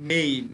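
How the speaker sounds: মেইন with two vowels joined as "ei"; demonstrated diphthong. Shown as a demonstration. Teacher shows two vowels making one sound, মেইন as "ei". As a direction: say মেইন with an "ei" glide. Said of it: "একটা উচ্চারণ হচ্ছে".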